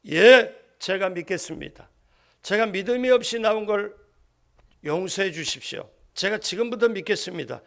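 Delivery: emphatic loud declaration, opening hard; loud confession. Acted. The father answers Jesus in a loud voice. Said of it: "큰 소리로".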